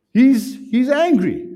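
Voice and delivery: angry punched high and loud, slowly; emphatic angry. Shown as a demonstration. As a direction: hammer home that Jesus is angry. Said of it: "stresses that Jesus is angry".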